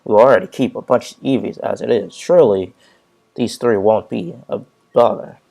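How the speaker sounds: loud, emphatic character voice; pleading game character. Acted. Character urges professor to take unwanted Pokemon, loud and insistent. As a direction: plead the case loudly.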